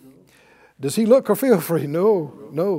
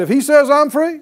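loud, high preacher's declaration; raised voice, prompting a call-back; 7 semitones higher, 7 dB louder than usual. Shown as a demonstration. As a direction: lead the congregation in declaring it. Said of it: "say it out loud".

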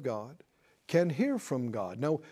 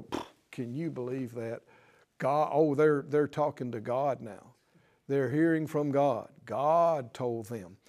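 mock scoffing; 4 semitones lower than usual. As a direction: scoff in disbelief, keeping it low and under your breath. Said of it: "scoff and mock".

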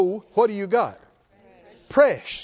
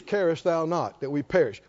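King James reading; 6 semitones lower, 4 dB quieter than usual. Retold or imitated. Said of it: "King James says".

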